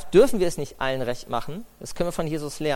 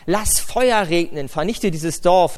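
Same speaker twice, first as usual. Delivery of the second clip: slow, louder demand for fire; aggressive demand; 2 semitones higher, 5 dB louder, much slower than usual. Retold or imitated. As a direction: call down fire on the village, slowly and hard. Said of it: "da werden sie richtig aggressiv".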